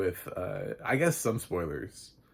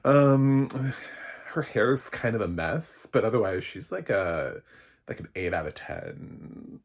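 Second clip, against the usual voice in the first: snarky describer; 3 semitones higher, 6 dB louder, slower than usual. Pretend. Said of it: "Be like".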